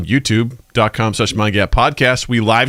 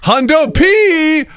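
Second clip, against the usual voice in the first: voice mod; 11 semitones higher, slower than usual. Acted. Hype soundboard voice mod.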